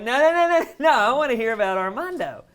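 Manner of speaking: high, loud rapid-fire no's; excited, high-pitched insistent outcry; eager protest. Retold or imitated. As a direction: burst in loudly to stop her. Acting out his eager protest.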